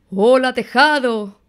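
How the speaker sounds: high mouse calling hello; ratón muy alto. Acted. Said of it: "ratón muy alto decía". (saludo de ratón en voz aguda)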